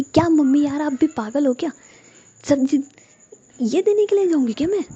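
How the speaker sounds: rising irritation, climbing high by the end; angry outburst. Acted. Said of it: "इतना गुस्सा क्यों कर रही हो तुम".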